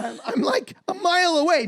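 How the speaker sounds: high, squeaky words through tears of laughter; can barely get it out for laughing; crying with laughter. Real, not acted. Friend loses it at the highway joke, crying laughing.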